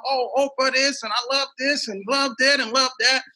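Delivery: high, gushing mock fan voice; excited crowd. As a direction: mimic fans shouting out praise. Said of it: "they started yelling out".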